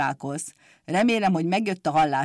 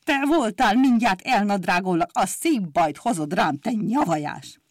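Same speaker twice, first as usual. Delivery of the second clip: hissing threat. Acted. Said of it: "sziszegett neki".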